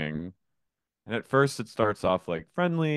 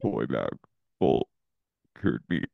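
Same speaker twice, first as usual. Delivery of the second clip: harsh barking commands; 2 semitones lower than usual. Retold or imitated. Penny threatens the girls.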